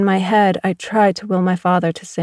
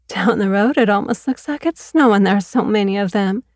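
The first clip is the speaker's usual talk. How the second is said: lightly voiced chattering neighbour; fussy neighbour voice; 2 semitones higher than usual. Neighbour chatting about mayflies down the road, lightly voiced.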